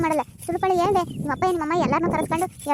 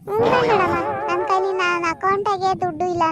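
mock shout; 3 semitones higher, slower than usual. Sarcastic outburst in quarrel.

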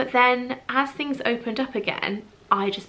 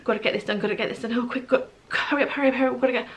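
frantic rushing; 3 semitones higher, much faster than usual. Retold or imitated. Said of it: "rather than thinking".

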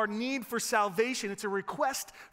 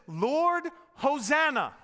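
loud, raised plea to the Lord; crying out; 5 semitones higher, 5 dB louder, slower than usual. Acted. Preacher quoting the psalm's plea, crying out. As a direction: call it out strongly, high and loud.

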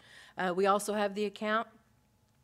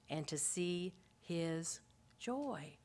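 whispered slowly, almost breathless; tender whisper of a dying man's joy; hushed whisper; 3 semitones lower, 7 dB quieter, much slower than usual. Real, not acted. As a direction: drop to a whisper on his joy. Intimate climax of the point.

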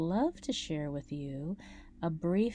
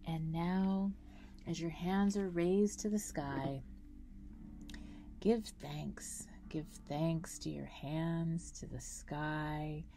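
guided meditation. Acted. Guide leading listeners through a grounding breathing meditation, calm meditation voice. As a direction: guide them through each breath, unhurried, drawing out key words.

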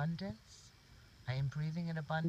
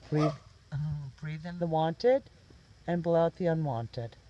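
guided meditation. Real, not acted.

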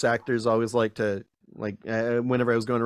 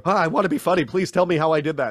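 higher, eager mock plea; mock eagerness; 4 semitones higher, 4 dB louder, faster than usual. Retelling himself begging to be funny, mock eagerness. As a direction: beg to know, playfully keen. Acts his own eager younger self.

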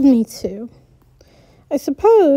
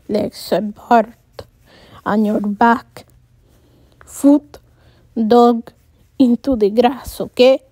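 put-on a touch of Hispanic accent, instructing; 3 semitones lower than usual. A narrator's reading. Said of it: "thick Hispanic accent".

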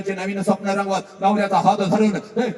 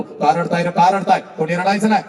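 louder, firm call to stop crying; a father telling the hall not to weep; mild mock shout from the father; 4 dB louder than usual. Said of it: "सगळ्यांना ओरडतो".

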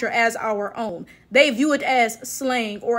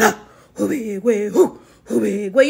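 lower, mocking put-on African accent; 6 semitones lower than usual. Vlogger mocking how Black Americans would talk, lightly accented. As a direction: parody the accent with a sneer. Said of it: "Black Americans would be walking around".

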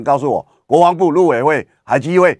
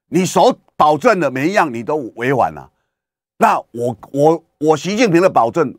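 lightly voiced aggrieved Xi, raised pitch; a hint of an indignant leader complaining; voicing Xi Jinping; 4 semitones higher than usual. Xi Jinping complaining to Biden about broken promises, mildly indignant.

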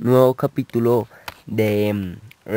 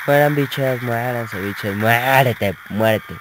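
gamer taunt shout; 3 dB louder, slower than usual. Real, not acted. Taunting enemies while shooting.

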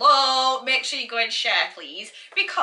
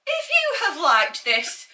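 mock zen voice; much slower than usual. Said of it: "very quiet, very relaxing".

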